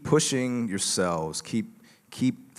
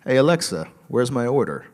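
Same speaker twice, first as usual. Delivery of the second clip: louder, higher, as if addressing a voice assistant; calling out; 4 semitones higher, 7 dB louder than usual. Retold or imitated. Community member asks Alexa about his order in a video, calling out. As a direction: call out a question to the smart speaker.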